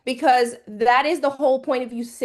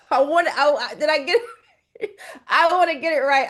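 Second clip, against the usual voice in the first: laughing embarrassed; 3 semitones higher, 3 dB louder, faster than usual. Real, not acted. Teacher laughing at herself over a student's name. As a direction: giggle through the apology for the name.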